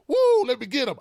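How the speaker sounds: cartoon virus cheering as it spots its prey; gleeful virus voice. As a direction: play the virus hungry for its next victim. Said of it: "the co-, corona go".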